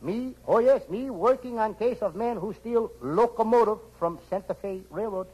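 high, pidgin detective voice; Charlie Chan. Acted. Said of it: "Me, Charlie Chan".

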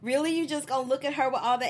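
high, sharp, fast indignant retort; jealous wife snapping back in disbelief; mock indignant. Maxie imitated, indignant and fast. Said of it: "She was like".

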